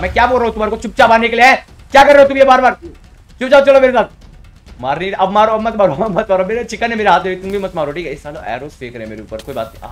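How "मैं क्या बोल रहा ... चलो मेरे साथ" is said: loud, irritated telling-off; raised voice, ordering them into line; exasperated scolding. Real, not acted. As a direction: scold them loudly for not listening. Scolding players who keep hitting him.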